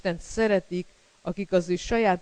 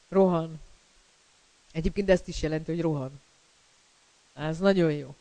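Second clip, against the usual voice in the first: ordinary talk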